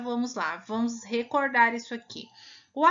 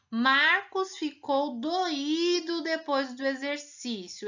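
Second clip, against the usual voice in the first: slow, higher reading stressing doído on í; careful reading; 4 semitones higher, slower than usual. Shown as a demonstration. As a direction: read slowly, lean on doído. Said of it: "Se eu retirar o acento".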